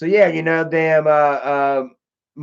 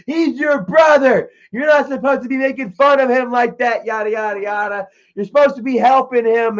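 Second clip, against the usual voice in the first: mom yelling; 6 semitones higher than usual. Retold or imitated. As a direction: imitate mom chewing him out. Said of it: "my mom yelled at me".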